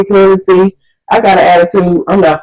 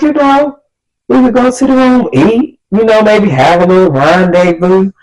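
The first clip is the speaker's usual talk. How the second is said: higher, lightly voiced sleazy flirt; mock smooth date; 5 semitones higher than usual. Date pitching a hotel-room rendezvous, mock smooth flirting. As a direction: coax her like a cheesy flirt.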